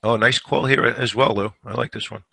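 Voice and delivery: hoarse gravelly voice; a scratchy sore throat. Real, not acted. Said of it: "I got a gravelly voice today".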